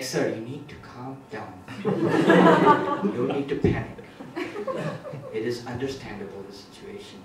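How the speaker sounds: put-on low, soft Indian-accented agent; quiet, soothing Indian-accented customer service. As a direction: placate the caller in an Indian accent. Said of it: "switch from Indian to English accent".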